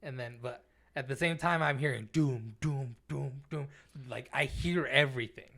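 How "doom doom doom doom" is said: imitated booming. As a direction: mimic a pounding boom. Imitating thudding sound he heard.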